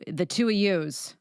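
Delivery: put-on slow, light Chicago accent. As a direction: drawl it like a Chicagoan. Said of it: "as we would say in Chicago".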